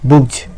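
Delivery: बुक्स ending in a voiced "gj"; बुक्स with the plural S said as Z; final Z sound. Shown as a demonstration. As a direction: end बुक्स on a buzz, not S. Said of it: "जेड के तरह उच्चारण करेंगे".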